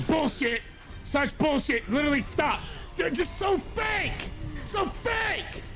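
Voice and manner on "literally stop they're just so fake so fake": raging gamer. Real, not acted. Raging at the game.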